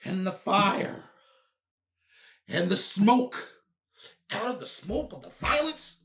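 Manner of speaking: mock-epic narration. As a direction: ham it up like a dramatic storyteller. Mock-epic narration of a news story.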